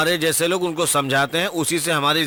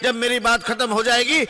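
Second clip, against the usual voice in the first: public address from a platform; political stump speech; 6 semitones higher than usual. Acted. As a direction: address the rally, phrase by phrase. Gives a political speech to a crowd.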